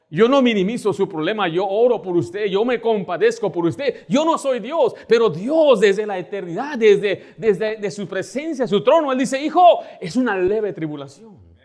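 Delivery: loud, rising pulpit fervor; fervent preaching. Acted. Pastor preaching loudly to his congregation about trials, fervent. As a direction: preach it out to the whole church.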